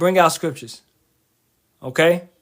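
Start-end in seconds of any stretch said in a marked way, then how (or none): 0.0-0.8 play-acted annoyed, fed-up, irritated delivery. Retelling own words in a street debate, acting out an irritated reply. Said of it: "I'm irritated 'cause I'm like".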